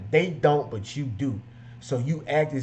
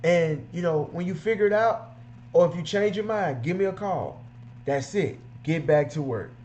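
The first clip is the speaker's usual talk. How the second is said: higher, breezy brush-off with a card; smooth detailer pitch; 6 semitones higher than usual. Retold or imitated. Detailer brushing off an undecided customer, breezy and higher. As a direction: politely close the deal and move on. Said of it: "And then he'd be like".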